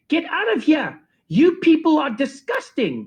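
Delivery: high mock-outraged order; teacher throwing the dancers out, mock disgust. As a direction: sneer it out as the teacher.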